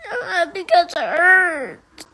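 loud sobbing; crying. Real, not acted. Child sobbing to mom about hair. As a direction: wail it through tears. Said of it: "You're crying".

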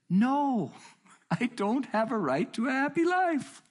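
very high, loud, held-up protest; emphatic retold outburst. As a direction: cry it out high, hammering the refusal. Retold outburst answering frustrated questioner.

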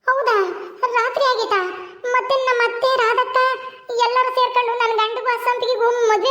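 frightened daughter. Acted. Frightened daughter telling mother dream.

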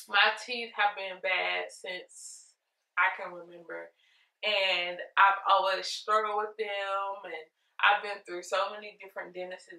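words slurred round a retainer; talking with retainers in. Real, not acted. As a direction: speak around the retainer in your mouth. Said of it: "I have my retainers in and it's hard for me to talk".

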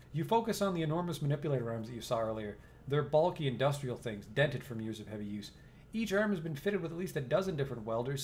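steady, even storyteller read; game narration. A narrator's reading. Narrator sets the scene for the player, even storytelling. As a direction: read the room description like a narrator.

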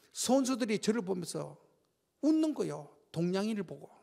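ordinary talk, nothing marked

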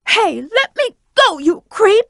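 high, sharp protest at the captor; indignant protest. Acted. Character seized by an enemy protests, high and indignant. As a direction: push back at whoever is holding you.

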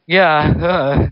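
high, loud screech. Acted. In pain, a high loud screech. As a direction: screech it out in distress. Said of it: "J F J screeched".

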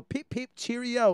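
high, slow mock-British chirp; drawn-out, high-pitched fake British. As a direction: put on a cartoon British accent, high. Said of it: "they put on a British voice".

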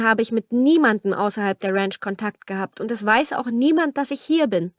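a hint of a desperate young woman; pleading young woman. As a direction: plead your case to him. Camilla keeps explaining.

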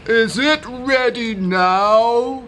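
loud-ish, high impatient question; impatient donkey. A narrator's reading. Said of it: "asked the impatient donkey".

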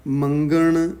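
ਮੰਗਣ said tight and firm; tightened. Shown as a demonstration. Teacher models scripture reading, ਮੰਗਣ tightened. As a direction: tighten ਮੰਗਣ as you read it. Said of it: "ਕੱਸ ਕੇ ਪੜ੍ਹਨਾ ਹੈ".

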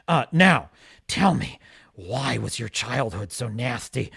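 oily, fake-gentle interviewer voice; a slimy imitation of a smug interviewer; mock Don Lemon grilling Elon with false friendliness. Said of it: "and he'd be like".

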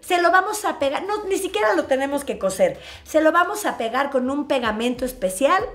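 high, sweet voice of hospital staff; reassuring nurse. Retold or imitated. Hospital staff calmly telling the mother it was only a tiny cut. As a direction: coo at the worried mother.

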